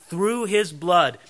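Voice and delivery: "through His blood" slow and weighted; emphatic phrase. Shown as a demonstration. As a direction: lean slowly on each word of "through His blood". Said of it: "notice the emphasis there".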